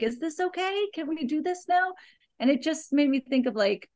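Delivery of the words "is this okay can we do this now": uneasy inner question. Retold or imitated. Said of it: "I'm like".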